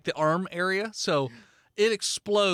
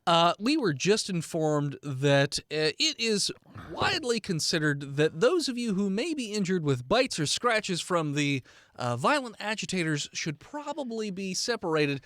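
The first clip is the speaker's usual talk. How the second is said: train conductor announcement. Acted. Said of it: "Comes over the speaker".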